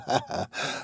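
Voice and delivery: put-on quiet, voiceless old-man chuckle; soft, muddled laugh. A narrator's reading. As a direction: chuckle softly under the breath.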